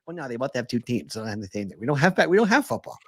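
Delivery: lightly voiced low, mumbled fan excuse; fan character voice. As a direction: play a fan's weak justification, dropping off then rallying. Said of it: "we gotta name the voice".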